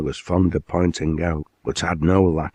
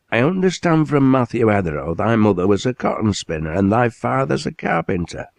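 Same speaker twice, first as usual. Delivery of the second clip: booming Lancashire factory owner, higher and welcoming; hearty mill owner; 5 semitones higher than usual. Acted. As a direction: greet the lad like a proud northern boss. Owner questions lad's family.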